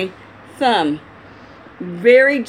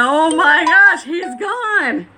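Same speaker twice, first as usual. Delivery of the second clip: mock panic; 5 semitones higher, slower than usual. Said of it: "And you'll be like".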